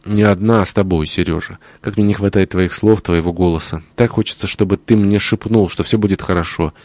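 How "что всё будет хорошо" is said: soft, settling fall on будет; hushed promise to herself; quiet falling reassurance. Acted. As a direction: say "что всё будет хорошо" gently, leaning on будет and letting it drop. Repeated reassurance, first take.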